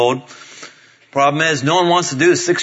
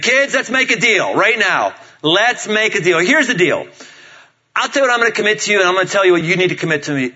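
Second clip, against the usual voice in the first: lightly voiced game-show host, pitched up; Monty Hall; 5 semitones higher than usual. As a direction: pitch the family a deal like a host. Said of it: "I did a little Monty Hall".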